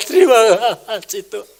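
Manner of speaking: high, loud yell of thanks that falls away; loud shout. Shown as a demonstration. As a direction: burst out shouting thanks to God. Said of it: "teriaklah sama Tuhan dengan suara nyaring".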